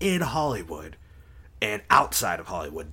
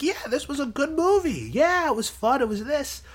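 mock enthusiasm. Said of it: "I'd be like".

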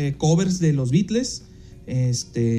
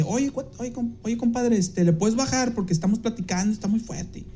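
high, soft polite ask; mild impression of a musician asking politely; polite request; 5 semitones higher, 5 dB quieter than usual. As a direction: ask him kindly to turn it down, voice raised and soft. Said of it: "me dice".

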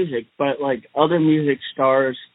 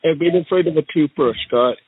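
Donald Trump impression. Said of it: "and I'm the Donnie Trump".

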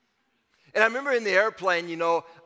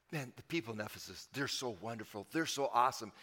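fond musing; 6 semitones lower, 11 dB quieter than usual. Retold or imitated. Paul voiced, musing fondly.

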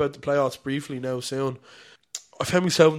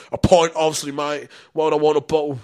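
mock offended; 6 dB louder than usual. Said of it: "took such bad offence to me".

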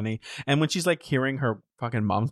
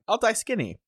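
high squeak; 11 semitones higher than usual. Pretend. Joking about starving at home.

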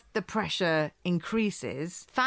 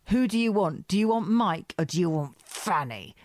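retold angry demand. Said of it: "And he's so angry".

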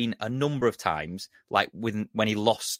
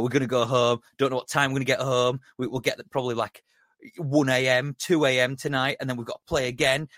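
lightly put-on German accent, higher and aggrieved; mock German accent; 4 semitones higher than usual. Podcaster mocking the Liverpool manager's post-match whine, light German accent. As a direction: play a touchy German manager with a hint of German accent. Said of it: "he's got a German accent, so let's just pretend".

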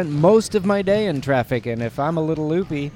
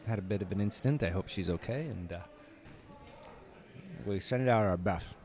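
quiet courtside murmur; hushed; 7 semitones lower, 13 dB quieter, faster than usual. Real, not acted. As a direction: keep it low, people can hear. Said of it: "Everyone can hear you".

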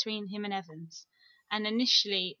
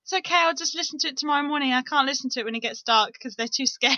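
imitating mum; 3 semitones higher, 4 dB louder than usual. Voicing mum's message.

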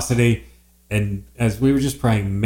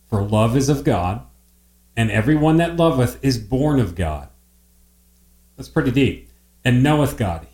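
scripture reading. Acted. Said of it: "I sure will".

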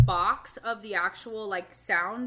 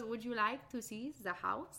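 a light French accent, a hint of an old lady; 8 dB quieter than usual. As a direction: invite gently in a mock French accent. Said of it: "I made her French".

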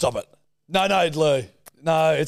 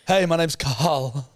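terrified; slower than usual. Retold or imitated. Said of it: "it just sounds like you're terrified".

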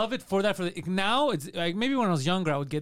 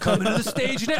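lightly hammed-up stage announcement, pitched up; strip club DJ; 4 semitones higher, 3 dB louder than usual. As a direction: announce the next dancer like a club DJ.

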